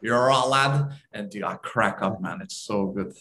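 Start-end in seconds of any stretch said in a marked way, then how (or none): 0.0-0.9 imitating a footballer's Liverpudlian "You're right, lad"; mock Scouse greeting, amused; light Liverpool accent impression. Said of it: "having this Liverpudlian accent".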